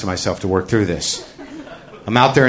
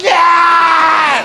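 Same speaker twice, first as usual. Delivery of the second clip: high, loud mock cheer; triumphant yell; 4 dB louder than usual. Kid celebrating a catch, loud triumphant cheer. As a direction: whoop it like a kid who caught it. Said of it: "but like".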